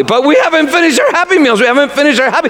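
put-on high whiny child voice; kids protesting. Kids refusing to leave their Happy Meals, high whine. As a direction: whine like a kid robbed of dessert. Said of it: "they began protesting loudly".

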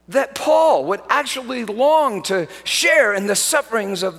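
fervent revival preaching; preaching at full force. Acted. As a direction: thunder it from the pulpit.

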